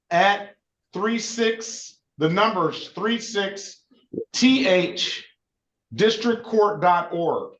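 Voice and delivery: very slow, emphatic dictation. Shown as a demonstration. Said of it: "can you say it again".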